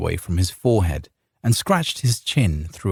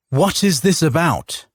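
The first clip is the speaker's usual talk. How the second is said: spat out; 8 semitones higher than usual. A narrator's reading. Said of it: "Ricard spat".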